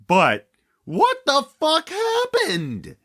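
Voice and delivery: high, drawn-out despairing cry; anguished wail. Real, not acted. Despairing outcry.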